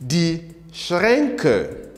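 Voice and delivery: "Schränke" with an open e in the first syllable; teacher's careful "Schränke", SHREN-kuh; changed umlaut vowel. Shown as a demonstration. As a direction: stretch the e sound in "Schränke". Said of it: "we see the change in the vowel".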